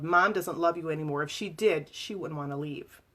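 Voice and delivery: mild mock bellow. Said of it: "He turned toward the kids and bellowed".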